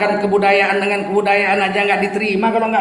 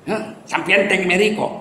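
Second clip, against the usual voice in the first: blunt Batak-accented Javanese question; lightly done Batak accent on Javanese. Shown as a demonstration. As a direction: ask it like a Batak speaking Javanese. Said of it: "kalau bahasa Jawa pakai logat Batak".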